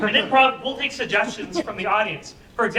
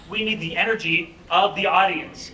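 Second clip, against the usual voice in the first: hyped-up call; 3 semitones lower than usual. Shown as a demonstration.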